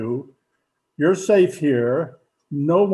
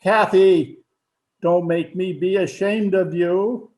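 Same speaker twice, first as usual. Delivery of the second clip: stern rebuke; 3 semitones higher, 4 dB louder than usual. Acted. Father scolds daughter before guest.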